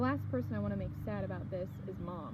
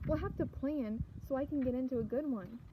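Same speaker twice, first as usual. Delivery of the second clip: "plan" pushed out higher than the rest; stress on "plan"; 4 semitones higher than usual. A narrator's reading. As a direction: lean hard on the word "plan". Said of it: "I place extra emphasis on the word plan".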